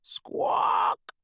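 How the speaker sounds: harsh whispered bird squawk; parrot squawk. Acted. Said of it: "says the parrot".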